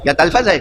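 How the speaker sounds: تلفظ squeezed to "talfaz", dropping the middle vowel; mispronunciation talfaz. Shown as a demonstration. Speaker testing listeners on the word, تلفظ as "tal-faz". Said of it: "صحیح تلفظ نہیں کر سکتے تھے".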